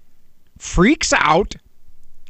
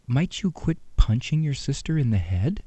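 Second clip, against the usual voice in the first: soft sweet request; 6 semitones lower, 5 dB quieter than usual. Retold or imitated.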